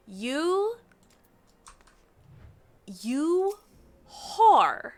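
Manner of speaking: loud, high rising "you", then a blurted insult; scandalized teasing, building to a loud punch; playfully appalled accusation; mock outrage. Real, not acted. Teasing a game character as a flirt.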